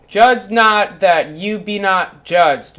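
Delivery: slow, grave recitation of scripture; a slow, reverent quote; solemn scripture reading. Acted. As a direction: read it like a sermon text.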